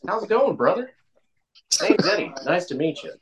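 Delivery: mock proper introduction; friendly white-guy greeting. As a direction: play the clean-cut new acquaintance. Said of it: "your Caucasian friends and be like".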